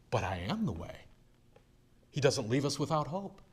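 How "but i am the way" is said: hushed whisper of comfort; soft unvoiced whisper on "but I am the way". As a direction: breathe it as a tender secret. Whispered tender quote.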